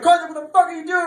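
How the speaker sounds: high, loud, fast shriek of disbelief; outraged shout. Pretend. Isaac catching Karthik with his sister, shouting high and loud. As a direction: scream it at your friend, appalled.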